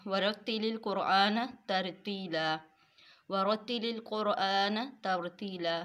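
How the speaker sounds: slow, measured Arabic recitation of the verse; Quranic recitation. Shown as a demonstration. Teacher reciting the verse slowly to her students. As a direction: recite the ayah slowly with tarteel.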